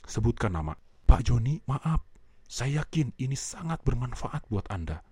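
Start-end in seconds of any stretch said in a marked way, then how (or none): 1.1-5.0 lowered tone. Shown as a demonstration. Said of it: "nadanya harus turun".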